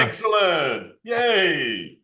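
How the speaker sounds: high, drawn-out little cheer. Real, not acted. Presenter cheers child who clicked start, excited.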